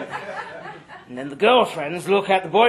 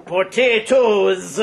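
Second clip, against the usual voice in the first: bad Irish accent; much slower than usual. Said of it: "in a Jamaican accent, trying for Irish".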